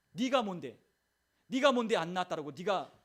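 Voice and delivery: indignant rebuke. Acted. Inner self talks back to the doubting voice, indignant. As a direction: push back hard at the accuser.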